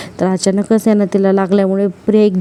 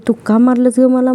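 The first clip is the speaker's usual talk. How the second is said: mild mock outrage at being slapped; indignant yell; 4 semitones higher than usual. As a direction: snap back at her, lightly acted. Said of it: "त्या कृष्णालाच ओरडायला लागते".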